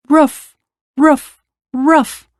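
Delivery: high-pitched woofs; barking dog. A narrator's reading. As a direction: imitate an excited little bark. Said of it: "and the dog".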